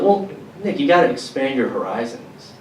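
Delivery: hammed-up mother advice; imitating mom. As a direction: nag like a prim mother. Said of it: "she's like".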